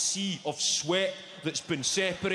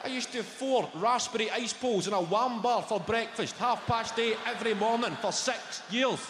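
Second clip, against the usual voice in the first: higher, shouty rant; 4 semitones higher than usual. Real, not acted. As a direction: build the junk food list with glee. Ranting list of junk food.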